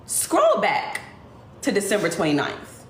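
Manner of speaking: inner voice urging. Retold or imitated. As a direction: voice the gut feeling that pushes her. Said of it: "something just told me".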